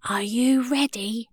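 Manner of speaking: hushed, secretive whisper. A narrator's reading. Maisie to Teddy in the parents' bedroom, whispered. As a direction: whisper it as you creep up. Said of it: "whispered Maisie".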